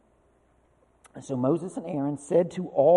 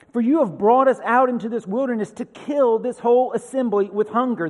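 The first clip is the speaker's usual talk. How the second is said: mildly raised voice of protest; grumbling complaint; 5 semitones higher, 4 dB louder than usual. Acted. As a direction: read it as a complaint, a touch higher.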